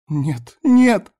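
high cry building to a loud shout; girl's scream. A narrator's reading. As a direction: start high, then scream the repeat. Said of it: "закричала Лада".

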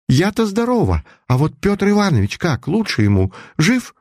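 anxious, desperate for news; anxious high questions. A narrator's reading. Friend anxiously begging the mother for news.

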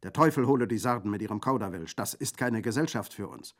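loud, high-pitched outrage; indignant. A narrator's reading. Bandit rejecting life in Sardinia, indignant. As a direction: reject it with scorn. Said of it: "rief Brandolaccio entrüstet".

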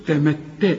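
تمتع slow, second t held double; doubled ta. Shown as a demonstration. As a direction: press on the double t of تمتع without humming. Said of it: "التاء الثانية مشددة".

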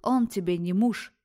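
loud, thundering rebuke. Acted. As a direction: boom it down at her. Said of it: "прогрохотала женщина".

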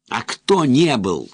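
high, loud, slow weary wail; hysterical wail. Acted. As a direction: cry it out, worn out and hysterical. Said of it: "истерично устало завопил".

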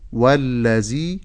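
"والذي" with a z sound, wallazii; tongue kept in. Shown as a demonstration. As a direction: say "والذي" with tongue behind teeth, as z. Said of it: "بعدم إخراج اللسان". ("والذي" بالزاي بدل الذال)

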